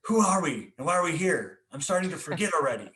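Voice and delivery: a small child asking big questions, voiced lightly; lightly voiced curious little boy. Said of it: "he goes".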